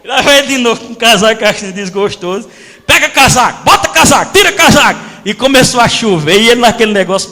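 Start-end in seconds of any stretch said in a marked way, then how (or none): 2.9-5.0 higher, louder drill chant; loud repeated training commands. Retold or imitated. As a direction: call out the drill like a coach.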